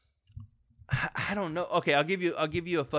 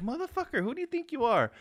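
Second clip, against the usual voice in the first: mock outraged yell; 10 semitones higher than usual. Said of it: "and I'm like".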